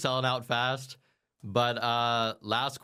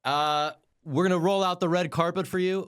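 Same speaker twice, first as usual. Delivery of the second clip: showman announcer; 6 semitones higher than usual. Pretend. Hypes guest like a showman.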